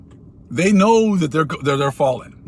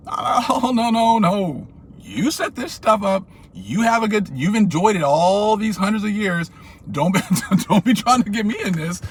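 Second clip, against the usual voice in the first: higher, teasing no no no; mock dismissal; 6 semitones higher than usual. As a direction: wag a finger and laugh it off. Mocking reply to fake concern.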